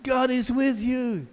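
high, slow sing-song church voice; slow, lifted pious blessing; churchy blessing. Retold or imitated. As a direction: intone it like a sugary church greeter. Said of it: "heard something, maybe in the church service".

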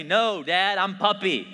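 a hint of a stubborn two-year-old; imitating toddler daughter. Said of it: "She tells me".

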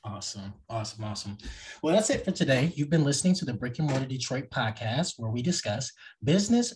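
smooth podcast ad read. Acted. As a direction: read it like a sponsor spot. Host reads sponsor ad and outro.

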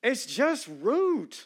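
"It's just rude" slow, every word pressed; flat ruling handed to the congregation; slow emphatic verdict. Real, not acted. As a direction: drop it slowly like a verdict. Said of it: "it doesn't matter how you say woman".

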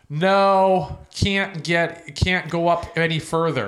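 lightly voiced usher, a loud, drawn-out NO; usher's refusal. Usher with a flashlight stopping fans, firm refusal. Retelling the usher blocking them.

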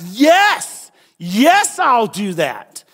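loud, high, fired-up agreement; emphatic yes. Acted. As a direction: say it like you can't wait to do it. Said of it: "it's like an emphatic".

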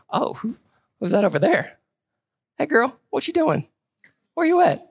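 high, playful pickup-line voice; flirty Boaz. Retold or imitated. Mock Boaz flirting with Ruth in the field, high and playful. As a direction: tease it like a smooth flirt. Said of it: "sometimes it's presented as Boaz".

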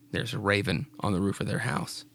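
whispered warning over the story; eerie storyteller whisper; spooky whisper. Acted. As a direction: hush it like a ghost tale. Ominous aside about raven.

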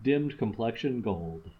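measured recitation of a sonnet; poem reading. Acted. Reading a Shakespeare sonnet to a friend, measured recitation. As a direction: read the sonnet out with care.

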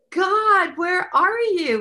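pleading cry to God. Retold or imitated. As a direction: cry out to God, dragging where are you. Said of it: "And I'm thinking".

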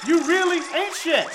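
fuzz distortion on the mic; blown-out, crackling hype intro; distorted audio. Real, not acted. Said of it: "I would like to apologize for the distorted audio".

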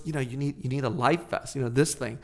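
soft, low, kindly advice; lightly voiced older man gently helping out. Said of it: "this older man kindly said to us".

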